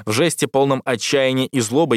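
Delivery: ordinary delivery, nothing marked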